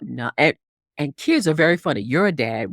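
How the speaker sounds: ordinary talk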